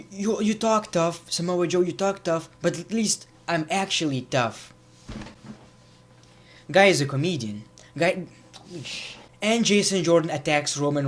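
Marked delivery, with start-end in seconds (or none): 0.1-4.7 mock tough talk. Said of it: "you're like".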